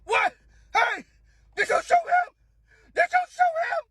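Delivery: high-pitched shouted accusation, hammed up; alarmed old man. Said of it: "the old man who claims".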